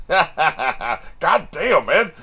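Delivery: excited. Real, not acted. Excited reaction to fight scene.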